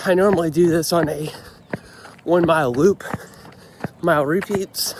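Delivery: cold, shivering voice; talking while shivering in the cold. Real, not acted. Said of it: "it's kinda hard to talk when it's cold outside".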